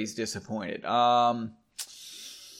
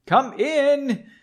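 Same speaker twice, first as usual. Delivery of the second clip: high, loud call to the door; exclaimed call; 11 semitones higher, 5 dB louder than usual. Acted. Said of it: "It's an exclamation point".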